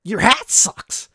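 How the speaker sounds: mock zinger. Rude suitor insulting a woman's hat, slow mocking taunt. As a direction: land the insult slowly like a schoolyard taunt. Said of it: "So, zinger".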